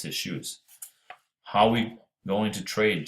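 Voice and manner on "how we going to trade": 강 건너로 천천히 외치는 목소리; calling back slowly. Acted. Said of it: "Charlie called back".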